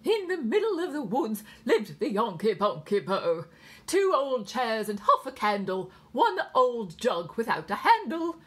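high, loud English nurse; pronounced English accent. A narrator's reading. Nurse reciting nursery verse over the radio, pronounced English accent. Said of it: "a woman with a pronounced English accent".

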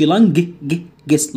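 "لانج، ج، جس" with the hard g sounded out; wrongly voiced g. Shown as a demonstration. Teacher warning students off the silent-letter mistake, hard g stressed in "جس". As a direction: break off and repeat the wrong g in "جس". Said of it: "ما تقولش".

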